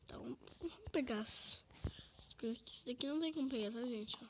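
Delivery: fast quiet whisper. Real, not acted. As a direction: whisper it quickly. Whispering commentary.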